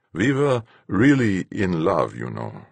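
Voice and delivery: slow, gentle confession, falling away at the end. A narrator's reading. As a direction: confide it gently, slowing down. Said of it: "His voice was gentler".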